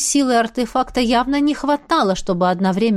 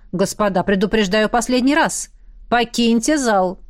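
лениво. Acted. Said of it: "лениво произнёс Джастин".

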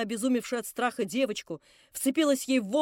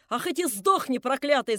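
shrieking curse; 3 dB louder than usual. Acted. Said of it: "завизжала баба вслед за ней".

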